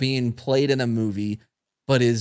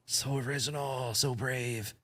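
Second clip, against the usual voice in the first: sarcastic; 12 dB quieter than usual. Real, not acted. Mocking the Instagram comment.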